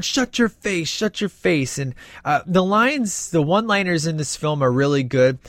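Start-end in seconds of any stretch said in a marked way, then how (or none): 0.0-1.8 higher-pitched mock scolding; imitated put-down. Fan re-enacting a movie character's repeated retort, mock scolding. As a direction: quote the retort in a raised voice.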